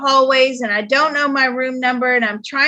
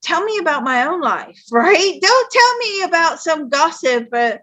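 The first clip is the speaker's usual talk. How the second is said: annoyed. Retold or imitated. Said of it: "I was so annoyed at my mother".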